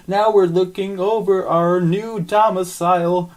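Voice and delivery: a hint of a grand new creature; monster voice. Voiced character Roger.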